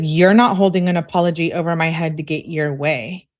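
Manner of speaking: loud, mildly indignant read-aloud comeback; heated retort. Acted. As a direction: push the first words out loud, arguing back. Reading aloud her angry retort.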